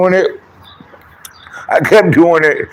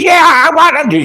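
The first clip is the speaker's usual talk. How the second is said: high, loud, slow wife voice; mock woman voice; 11 semitones higher, 4 dB louder than usual. Wife answering in the background, high mock voice. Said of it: "she said".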